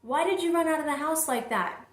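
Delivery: high, puzzled child's voice imitation; Kennan. Daughter leaving mom a voicemail, imitated high questioning voice. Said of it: "she says".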